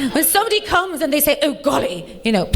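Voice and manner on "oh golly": mock-posh English; posh boyfriend. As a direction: mimic a posh Englishman, lightly. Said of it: "he's awfully posh".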